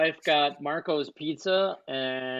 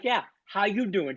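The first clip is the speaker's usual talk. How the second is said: Joey-style how you doing; 4 dB quieter than usual. Retold or imitated. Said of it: "she's like".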